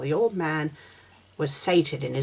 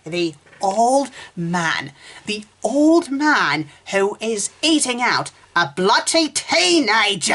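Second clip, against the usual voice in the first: incredulous. Real, not acted. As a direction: build from slow shock to outrage. Building disbelief.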